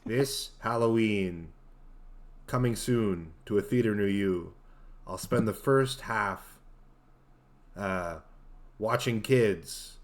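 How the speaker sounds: slow, dramatic trailer announcer; movie trailer voice. Shown as a demonstration. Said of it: "Say it like a movie trailer".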